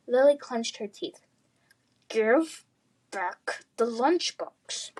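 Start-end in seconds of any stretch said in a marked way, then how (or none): 2.1-4.9 slow menace. Acted. Lily clenching teeth.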